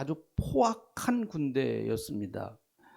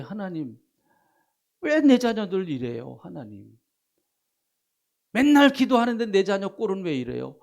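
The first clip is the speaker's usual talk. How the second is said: arguing with God; 3 dB louder than usual. Shown as a demonstration. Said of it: "한번 따져보세요".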